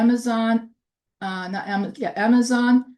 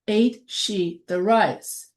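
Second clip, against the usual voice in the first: slow; slower than usual. Shown as a demonstration. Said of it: "So that becomes".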